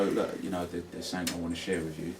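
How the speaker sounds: gentle. Shown as a demonstration. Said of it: "you'd go, you'd go".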